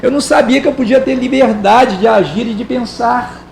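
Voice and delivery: sarcastic mock innocence; lightly ironic aside. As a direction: feign surprise, dripping irony. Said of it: "Bem irônico".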